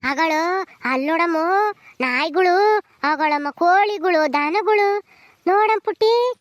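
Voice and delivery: put-on drawn-out singsong to a baby; soothing baby talk. Granny showing animals to hush a crying baby, soothing singsong. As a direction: coax the crying baby with stretched words.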